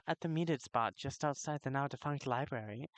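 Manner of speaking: accidental, badly done British accent; shaky attempt at sounding British. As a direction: slip into a clumsy British accent. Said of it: "I gotta stop that accent".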